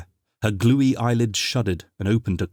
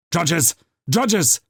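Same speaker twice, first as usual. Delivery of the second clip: yelled; 9 semitones higher, 4 dB louder than usual. A narrator's reading. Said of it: "yelled Sathralope".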